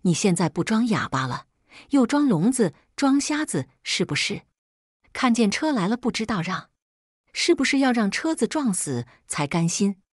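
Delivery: a touch of a nagging mother's rising anger; scolding. Acted. Mother turning on her daughter after the near-miss, mildly angry scolding. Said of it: "又回头骂我".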